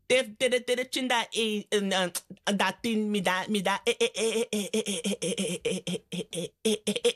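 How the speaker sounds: stuck stammering on the first sounds, repeating e, e, e; imitated stutter. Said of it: "ik weet dat ik heel zwaar stotterde". (nagespeeld zwaar stotteren)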